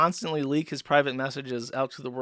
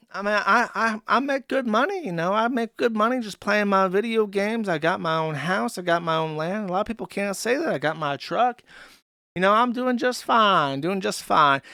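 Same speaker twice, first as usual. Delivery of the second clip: mildly higher, lightly smug boast; 5 semitones higher than usual. Retold or imitated. Streamer bragging about his house and truck, lightly smug. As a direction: imitate a self-satisfied brag about doing fine. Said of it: "that's that other kind of smug".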